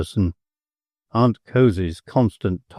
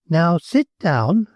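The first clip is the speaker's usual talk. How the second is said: slow, firm order; commanding; 6 semitones higher, slower than usual. A narrator's reading. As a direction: lay down the command. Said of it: "commanded the Countess".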